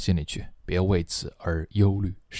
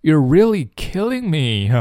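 higher, louder, laughing tease; playful higher delivery; amused; 4 semitones higher, 3 dB louder than usual. Shown as a demonstration. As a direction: say it like the joke got you. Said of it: "真是笑死我了".

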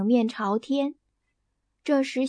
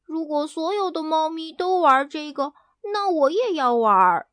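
eager high call, louder at the end; 4 semitones higher, 3 dB louder than usual. Acted. Hen Hena agreeing to climb the tree, loud. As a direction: shout it out keenly. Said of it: "他大声叫道".

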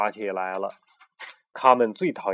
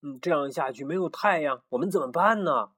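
higher, pleading little voices; pleading chicks; 5 semitones higher than usual. Acted. The chicks beg Pero to bring back the sun, pleading. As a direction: beg the wise rooster for help. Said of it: "说".

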